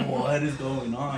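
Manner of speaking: loud, slow mock wail; mock bawling. Kid watching mom beat the hamster, mock bawling. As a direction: wail it out through a laugh. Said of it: "I'm bawling my eyes out".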